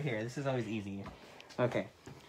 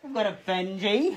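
mock-British, pitched up; high amateur British accent; attempted British accent; 6 semitones higher than usual. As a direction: introduce cats in a silly British voice. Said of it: "do it in a British accent".

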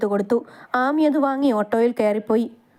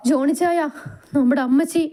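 a touch of tearful pleading, higher; crying; 6 semitones higher than usual. Acted. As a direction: brother breaking bad news, mildly tearful. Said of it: "നീ കരയാതെ കാര്യം പറയടാ". (കരച്ചിലോടെ)

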